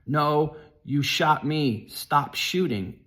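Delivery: retold terrified scream to stop; frightened scream. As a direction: scream it out, afraid he'll shoot again. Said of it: "I screamed out".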